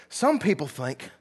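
badly faked British accent, drawn out; British accent attempt. Shown as a demonstration. Preacher quoting the Bible CD narrator, attempted British accent. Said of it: "not gonna do a British accent".

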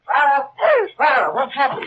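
very high, startled cry; alarmed. Acted. The man finding Clara in the dark, high and alarmed. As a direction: rush in, alarmed. Man rushes to screaming woman.

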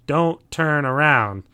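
slow, firm warning. Retold or imitated. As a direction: drag it out as a grave warning. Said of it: "he says to everyone else".

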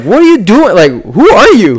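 baffled and alarmed; bewildered high demand; confused actor. Retold or imitated.

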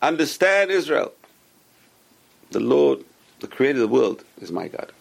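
each word weighed and drawn out; slow and deliberate. Shown as a demonstration. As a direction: recite it slowly with meaning. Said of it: "should be said very slowly".

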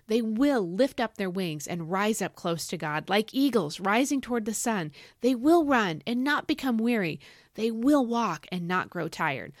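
emphatic "will" in each clause; stress on WILL. Shown as a demonstration. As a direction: punch every "will". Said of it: "I'm gonna really lay the emphasis on will".

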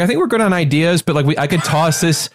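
lightly acted courteous refusal; polite brush-off. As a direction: imitate someone gently turning down a pitch. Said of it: "just a very polite way".

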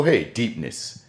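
slow, drawn-out mock greeting; mimicking the friend greeting him, slow teasing drawl; imitating friend. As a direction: stretch it out teasingly. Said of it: "this nigga just go".

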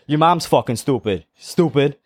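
lightly imitated Puerto Rican insult; Puerto Rican accent. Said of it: "I'm gonna do an accent".

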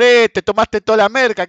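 gritos de increpación. Retold or imitated. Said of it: "le empezaron a gritar". (imitando gritos de increpación)

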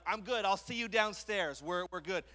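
loud, hammed-up nervous brush-off; mock nervous. Son on Empire State Building, loud and nervously brushing mom off. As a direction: blurt it out to get away from the edge. Backing away from the platform.

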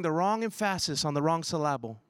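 put-on low movie quote, wrongly accenting "emphasis" and "syllable"; misplaced stress. Preacher quoting a favorite movie clip, misplaced stress on "emphasis" and "syllable". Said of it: "Remember that Gwyneth Paltrow movie".

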